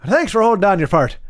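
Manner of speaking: put-on joking Irish accent, fort as "fart". Streamer explaining a joke to chat, Irish accent. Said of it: "it totally works for Iron".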